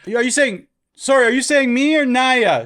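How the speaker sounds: high, loud call from another room; yelling through house. Retold or imitated. Kid calling back through the house, loud. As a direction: shout the question across the house. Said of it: "if you're yelling through the house".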